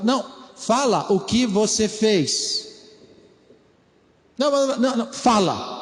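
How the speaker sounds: pressing father demanding an answer; mock stern father. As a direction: push the child to own up. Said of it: "Parece pai ensinando filho".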